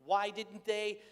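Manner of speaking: a frazzled father at the end of his rope; exasperated dad. Retold or imitated. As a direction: blow off steam like a worn-out dad. Frazzled dad venting about homework.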